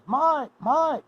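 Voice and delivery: high, excited calling voice. Retold or imitated. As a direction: call his name across the yard, pitched high. Old classmate calls out to Mike.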